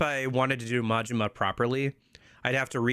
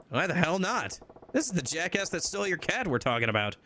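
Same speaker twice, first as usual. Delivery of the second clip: indignant tough guy; 7 semitones higher than usual. Acted. Majima objects.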